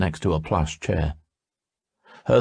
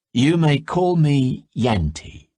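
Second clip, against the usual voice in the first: smiling; 8 semitones higher, slower than usual. A narrator's reading.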